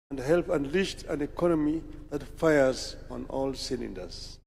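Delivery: measured, deliberate speech read from a prepared text; formal speech. Acted. Leader addressing Madaraka Day crowd, formal speech delivery. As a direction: address the dignitaries with steady official gravity.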